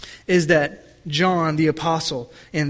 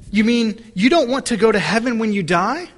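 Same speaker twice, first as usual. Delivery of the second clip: a higher, disbelieving question; shocked pastor; 5 semitones higher, 3 dB louder than usual. Retold or imitated. Pastor to boy, mildly shocked disbelief. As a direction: sound taken aback by the boy. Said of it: "He was shocked by the young man's response".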